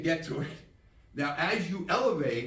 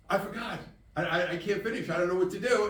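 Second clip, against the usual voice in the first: mock panic; 6 semitones higher than usual. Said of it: "so he panics".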